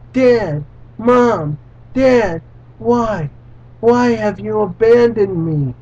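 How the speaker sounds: lightly voiced child calling out; a hint of a frightened little boy; child calling after his parents, lightly voiced; crying child. Son cries out to parents.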